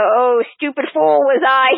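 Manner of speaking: slow, mock-overwrought narration; overwrought monologue. Critic mocking the film's overwrought narration, mock-melodramatic. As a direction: imitate a ponderous film voiceover, slowly. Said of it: "this really overwrought, almost tediously meaningless monologues".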